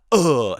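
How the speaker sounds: overacted loud frustrated groan; corny acting groan. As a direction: ham up an actor's ugh. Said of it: "People are like".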